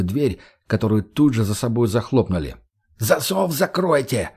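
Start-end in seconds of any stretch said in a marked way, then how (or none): 3.0-4.3 shout from the dark. Acted. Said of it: "прозвучал крик из полумрака".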